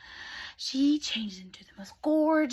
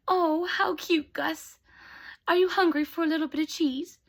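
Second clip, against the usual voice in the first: higher, louder cooing to a little pet; fond Cinderella; 5 semitones higher, 4 dB louder than usual. Acted. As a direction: coo fondly to a tiny friend. Cinderella greets her little mouse friend.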